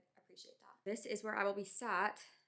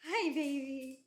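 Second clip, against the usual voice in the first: squeaky praising a dog; 7 semitones higher, 8 dB louder, slower than usual. Real, not acted. Cooing at her dog.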